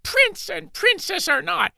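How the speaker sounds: high, slow furious curse; laying a curse. Acted. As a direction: spit the curse at them. Servant curses prince and princess.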